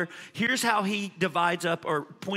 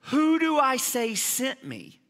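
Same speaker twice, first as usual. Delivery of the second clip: Moses asking; 6 semitones higher, slower than usual. Acted. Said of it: "So he says to this voice".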